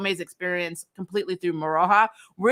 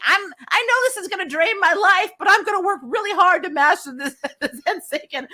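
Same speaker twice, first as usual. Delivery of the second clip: mock Toa; 12 semitones higher, 4 dB louder than usual. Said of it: "Toa basically saying".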